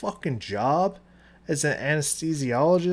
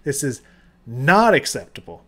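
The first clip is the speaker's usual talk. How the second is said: mock Gordon Ramsay rant; 6 dB louder than usual. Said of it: "I went full Gordon Ramsay".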